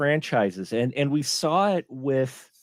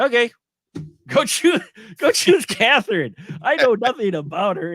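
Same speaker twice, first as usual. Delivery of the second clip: higher, louder exasperated retort; 8 semitones higher, 5 dB louder than usual. Retold or imitated. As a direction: scoff at the demon's choice. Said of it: "I'm like".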